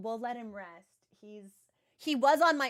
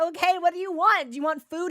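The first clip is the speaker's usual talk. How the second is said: a bit higher and louder, coaxing a cranky pet; coaxing pet owner; 5 semitones higher, 5 dB louder, faster than usual. Retold or imitated. Owner pleading with her mad cat, coaxing and a bit higher. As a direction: sweet-talk the cat. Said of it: "And I say".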